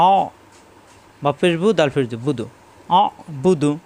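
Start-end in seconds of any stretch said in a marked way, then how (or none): 0.1-0.1 "অ" held with pressure in the throat; pressed throat sound. Shown as a demonstration. Teacher demonstrating ain after explaining, pressed throat. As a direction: squeeze "অ" into an Arabic ain. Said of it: "কণ্ঠনালীতে চাপ সৃষ্টি হবে".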